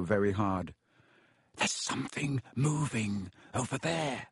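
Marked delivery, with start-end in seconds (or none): 1.6-4.3 hushed, much softer warning; breathed. A narrator's reading. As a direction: breathe it out very quietly. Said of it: "Harry breathed".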